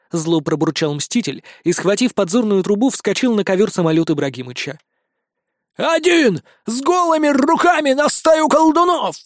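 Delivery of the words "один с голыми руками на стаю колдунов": high, alarmed parrot cry; panicked parrot. A narrator's reading. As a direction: squawk in disbelief after him. (попугай в панике, высоко)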